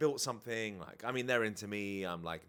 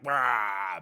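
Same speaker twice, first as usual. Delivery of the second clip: short loud "Rah" roar; warrior roar; 11 dB louder than usual. Retold or imitated. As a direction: bark out a party-warrior "Rah". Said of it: "like, warrior mode".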